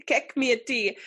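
high squeaky laughing repeat; laughing quote. Retold or imitated. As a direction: giggle through the words.

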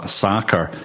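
lightly Americanised pronunciation of "soccer"; American accent. Real, not acted. Podcast guest talking about relatives' football in New Zealand, American accent. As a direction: slip briefly into an American accent. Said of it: "put on an American accent".

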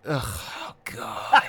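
slow, drawn-out groan through laughter; mock agony groan. Friend reminds them of an earworm song, mock agony. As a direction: groan in playful despair, laughing.

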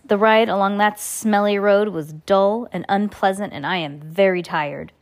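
lightly wheezy villain; a touch of wheezy complaint. Acted. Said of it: "in his wheezy voice".

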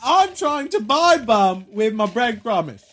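mock Cockney accent. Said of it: "like, a Cockney accent".

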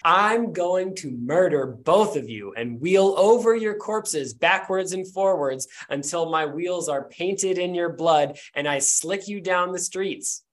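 slow, threatening Southern belle; murderous threat in a slow Southern accent. Acted. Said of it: "Do it in her accent".

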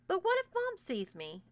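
high alarmed plea; a rush of panic; panicked. Acted. Panicked brother protests.

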